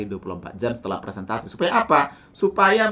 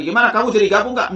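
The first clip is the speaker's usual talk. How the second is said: doubtful ask; 7 semitones higher, 3 dB louder than usual. Shown as a demonstration. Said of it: "Jadi kalau Anda bilang tadi".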